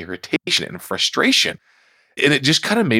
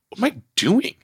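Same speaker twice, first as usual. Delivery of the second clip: self-questioning realization; 4 semitones higher than usual. Retold or imitated. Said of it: "I realized".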